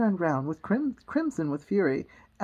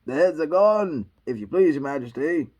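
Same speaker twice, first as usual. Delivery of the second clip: shouted reply; 3 semitones lower, 7 dB louder than usual. Acted. Soldiers reporting to the Queen, shouting. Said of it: "shouted in reply".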